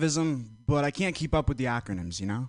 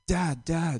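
calling out for dad; 4 semitones higher than usual. Retold or imitated. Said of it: "called out for my dad".

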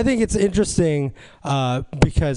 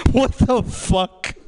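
incredulous; 7 semitones higher, much slower than usual. Acted. Incredulous at murder story.

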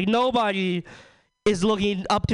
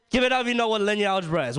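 call to crowd; 3 semitones higher, faster than usual. Real, not acted. Calling to the crowd.

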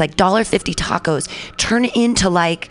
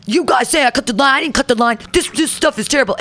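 higher, indignant mock protest; imitated yelling; 5 semitones higher than usual. Customer yelling at Jonathan that he didn't cut the line, indignant. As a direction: retell an accused line-cutter's angry denial. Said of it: "he starts yelling at Jonathan".

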